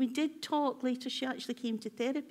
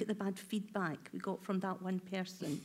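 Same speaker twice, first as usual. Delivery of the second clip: dwelling inner voice; 4 semitones lower, 6 dB quieter than usual. Retold or imitated. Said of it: "when you go".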